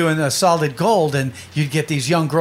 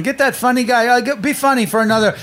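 higher-pitched, hurried-along orders; imitated pushy producer; 5 semitones higher than usual. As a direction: lightly mimic a producer demanding more jokes. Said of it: "producers are snapping their fingers going".

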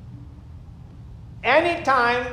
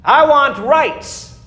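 mock complainer; 2 semitones higher, 4 dB louder, slower than usual. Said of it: "Somebody say".

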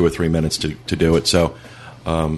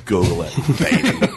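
laughing; 5 semitones higher than usual. Real, not acted. Playful echo with laugh.

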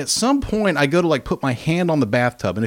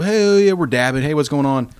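rowdy acted hello; hailing friends; 3 semitones higher, 5 dB louder than usual. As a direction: call out like a group finally showing up. Friends' arrival acted as greeting.

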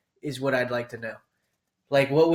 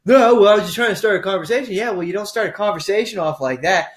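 hammed-up argument; 8 semitones higher than usual. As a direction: act out both sides of a bar spat. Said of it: "this rant".

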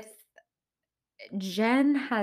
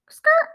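imitated tire screech; 11 dB louder than usual. Imitated noise before switching topics.

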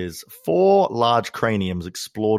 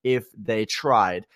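posh English accent, higher and slowed right down; upper-class English accent; 6 semitones higher than usual. Shown as a demonstration. Host reading a listener review aloud in an upper-class English accent. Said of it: "my accent sort of devolved into an upper English class accent".

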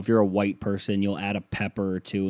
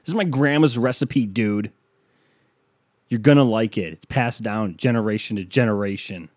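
pitched up, louder, pushing grandma's recipe; indignant host; 3 dB louder than usual. Retold or imitated. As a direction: defend the family recipe, offended.

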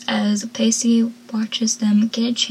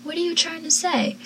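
put-on drama-hungry teenager; 6 semitones higher, 5 dB quieter than usual. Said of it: "being the teenager that wants all the drama".

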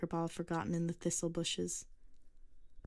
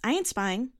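loud, high indignant snap back; retort; 5 semitones higher, 7 dB louder than usual. A narrator's reading. Girl to the old man, a defiant loud retort. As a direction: fire it back at him. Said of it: "she retorted".

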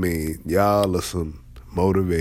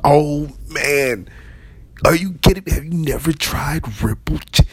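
much higher, louder disbelief; excited chip fan; 8 semitones higher, 4 dB louder than usual. Retold or imitated. Chip fan gushing to a coworker, mock excited. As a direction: gush like you can't believe it. Acting excited friend about chips.

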